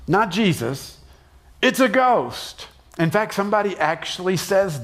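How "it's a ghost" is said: terrified cry. Acted. Repeated ghost cry.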